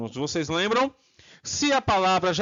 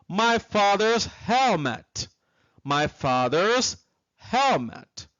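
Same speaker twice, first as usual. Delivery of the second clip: slow model; 2 semitones higher, slower than usual. Shown as a demonstration. Teacher models the answer slowly.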